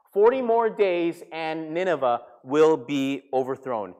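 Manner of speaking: slow, measured declaration; drawn-out prophet's announcement; prophetic proclamation. Retold or imitated. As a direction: proclaim the warning word by word. Repeats Jonah's sermon to Nineveh.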